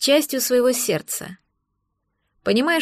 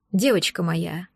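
put-on low, softer, tender call to a girl; heartfelt call; 5 semitones lower, 4 dB quieter than usual. A narrator's reading. Werewolf father softens his tone for the girl, lower and softer. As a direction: coax her gently, like a father. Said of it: "Проникновенно позвал он".

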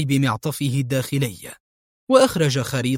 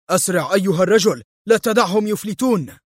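villain yelling at his driver to speed up; shouting; 5 semitones higher than usual. Acted. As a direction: bark the order to hurry. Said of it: "كان فولفغانغ يصرخ".

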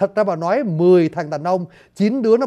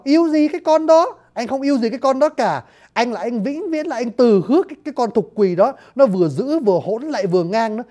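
higher, dismissive lover's scorn; scornful lover; 3 semitones higher than usual. Retold or imitated. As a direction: brush off the other girl scornfully. Thích Nhân dismisses Thục Quỳ. (giọng khinh khỉnh của chàng trai, cao giọng)

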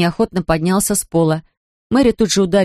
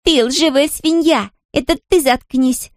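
put-on higher, slow shrieked insult from a girl; shrieking; 7 semitones higher, slower than usual. A narrator's reading. Girl screams back at her brother, shrieking. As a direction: screech it at your brother. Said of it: "завизжала Мэри".

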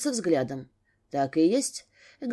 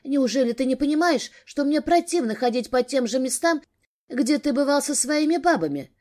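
отчаянная жалоба; 5 semitones higher than usual. Acted. Жена высказывает мужу наболевшее.

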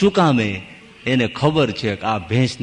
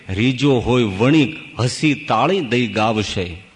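slow, measured recital of a couplet; verse recitation; slower than usual. Acted. Preacher quotes a verse on who gives what when pleased, reciting. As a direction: recite it in drawn-out metrical phrases.

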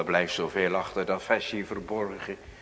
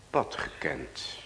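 slow, softer whisper; 8 semitones lower, 6 dB quieter than usual. Acted. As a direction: breathe the words out, slow and hushed. Prayer drops to a whisper. (fluisterend en langzaam)

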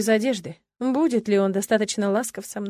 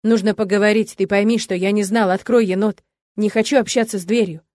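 loud pleading; 5 dB louder than usual. Acted. Kai pleads loudly through the door.

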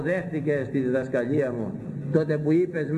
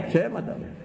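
«Ψέματα λένε» said much higher with a rising mocking lilt; high mocking repeat; 8 semitones higher than usual. Shown as a demonstration. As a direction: toss «Ψέματα» up high, scoffing.

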